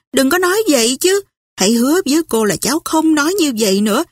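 a hint of a shocked old lady fretting, fast; fussy old aunt. Aunt Pitty shocked, scolding. (giọng bà cô hốt hoảng, cao và nhanh)

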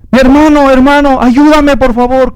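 high, urgent begging on the phone; panicked sister pleading. Acted. Sister calls begging for help.

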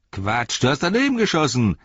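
high, quick scoffing retort; scornful orc tracker. Acted. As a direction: scoff at the orc soldier's boast. Tracker scoffs at soldier's boast.

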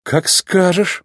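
slow, gentle reply; easygoing, mild agreement; soft. A narrator's reading. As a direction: give in mildly and unhurried. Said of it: "мягко ответил Маккуин".

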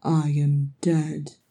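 slow, woozy mumble; mumbled. Acted. Thorin, head aching and spinning, mumbles to Farin. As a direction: drag the words out half-dazed. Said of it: "Thorin mumbled".

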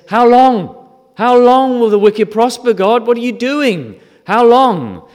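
high, loud cry of protest to God; loud desperate lament; anguished outcry. Retold or imitated. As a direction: shout it up to heaven in anguish. David crying out to God.

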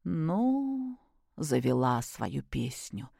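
soft, slow, weary sighing; bitter sigh. Acted. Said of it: "горько вздохнула Любовь Сергеевна".

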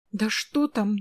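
plain reading voice

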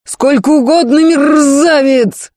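snarled, slow on the last word; growling. A narrator's reading. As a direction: growl the insult after him. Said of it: "рычал вслед Никита". (рыча)

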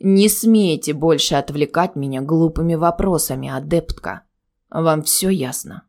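grind it out as a looming threat; through gritted teeth. Acted. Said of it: "процедил он сквозь зубы".

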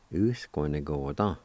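"U-S-Kwa-Ni-Ko-Ta" blended into one word; joined-up pronunciation. Shown as a demonstration. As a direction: say "U, S, Kwa, Ni, Ko, Ta" with no breaks. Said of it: "It's pronounced like this".

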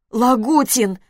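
indignant wife cries out his name; indignant surprise. A narrator's reading. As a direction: cry his name in disbelief. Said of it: "удивление и возмущение в её голосе".

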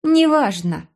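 high brushing-off voice; dismissive girl. Acted. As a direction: wave it away, pitched high. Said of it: "отмахнулась моя мама".

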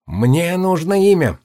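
put-on high, fast boyish cry; lion cub's ringing boyish shout; ringing boy's shout. A narrator's reading. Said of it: "крикнул он звонким, с лёгкой хрипотцой мальчишеским голосом".

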